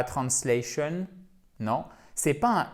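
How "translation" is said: "translation" half French, trans-SLEH-shun; slow mistaken "translation" with a French-sounding first part; mock learner error in "translation", rising at the end; wrong pronunciation. Shown as a demonstration. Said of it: "c'est pas translation".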